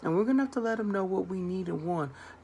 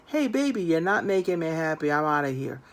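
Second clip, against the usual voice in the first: louder, flippant dismissive brush-off; blunt breakup line; 2 semitones lower, 4 dB louder than usual. Retold or imitated. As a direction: toss it off and walk away. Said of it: "I don't want you to say".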